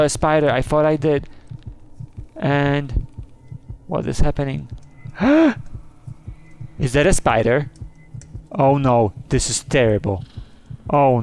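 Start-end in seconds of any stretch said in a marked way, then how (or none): 5.0-6.3 high frightened gasp. Real, not acted. Sees the spider.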